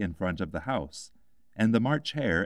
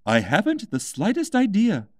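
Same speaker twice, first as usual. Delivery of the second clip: high, louder Hatter; a mad hatter posing a riddle; lightly voiced eccentric Hatter; 12 semitones higher, 6 dB louder than usual. A narrator's reading. Hatter replies.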